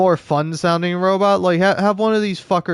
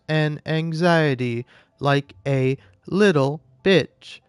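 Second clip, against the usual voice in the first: robot voice. Acted. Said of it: "when you do a robot voice bit".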